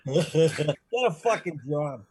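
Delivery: slow, drawn-out Boston retort; Boston accent. Acted. Oz character brushes off another, slow Boston accent. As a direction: drag it out in thick Boston. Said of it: "Bostonian accent".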